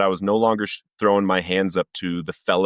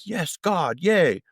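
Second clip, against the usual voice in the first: singsong fake delight, pitched way up; mock joy; 10 semitones higher, much slower than usual. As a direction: imitate an imagined happy yes to God. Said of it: "you would think I was like".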